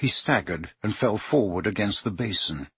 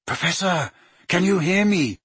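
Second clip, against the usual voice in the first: calling loudly; 7 semitones higher than usual. A narrator's reading. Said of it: "he repeated loudly".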